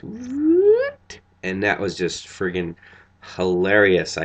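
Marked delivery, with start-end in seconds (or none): 0.0-1.2 high, loud rising what; mock outrage. Matt Smith affronted at the screwdriver, high yelp.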